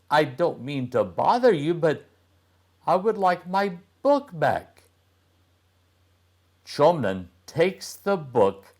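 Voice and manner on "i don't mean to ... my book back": put-on boy's voice. Boy wants his book back.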